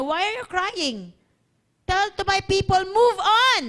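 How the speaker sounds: building to a loud, high command; commanding divine reply. Acted. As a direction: preach God's order, rising on "move on". Voices the Lord answering Moses. (utos ng Lord, palakas nang palakas)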